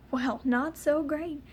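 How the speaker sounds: dry, slowed sarcastic reply. Retold or imitated. To her mom asking how she is, mildly sarcastic. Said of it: "I was being very sarcastic".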